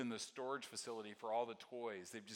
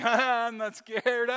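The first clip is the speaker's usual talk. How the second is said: "I'm not scared" stretched out very slowly through nervous laughter, higher and louder; nervous laughing; 11 semitones higher, 14 dB louder, much slower than usual. Retold or imitated. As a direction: fake bravado, forced out between laughs. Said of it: "that kind of laughter that's like".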